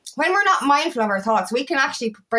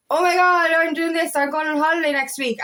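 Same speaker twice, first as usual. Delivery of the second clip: imitating excited friend; 5 semitones higher than usual. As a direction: gush about the holiday like an excited friend. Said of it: "came up to me and said".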